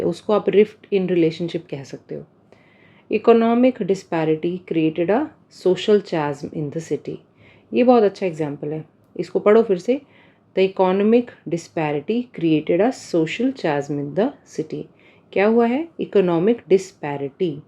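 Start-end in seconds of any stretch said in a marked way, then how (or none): 3.1-7.1 slow, careful reading of example sentences. Shown as a demonstration. Reads example sentence slowly. 10.6-14.8 slow, careful reading of example sentences. Shown as a demonstration.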